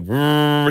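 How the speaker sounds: one steady held blower drone; imitating steady leaf blower. Comic telling how a neighbour's leaf blower should sound, imitated steady drone. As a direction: imitate a blower at constant pitch. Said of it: "he wasn't going like".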